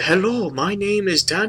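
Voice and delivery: high, soft mock Asian accent; imitated Asian accent. Imitating the movie's Asian character, accented. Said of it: "he has, like, an accent".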